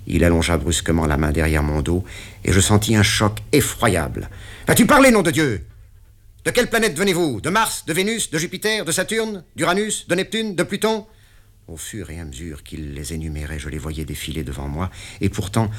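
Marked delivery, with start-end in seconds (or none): 4.7-11.1 much higher, shouting rapid list; enraged boss; furious interrogation. Acted. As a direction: roar the planets at the prisoner. Patron tortures and yells.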